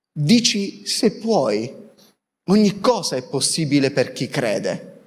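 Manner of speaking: slow, measured scripture quote; quoted solemn answer. Acted. Preacher voicing the answer from the Gospel story, measured and solemn. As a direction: deliver the answer deliberately, with light gravity. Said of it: "E risponde il papà".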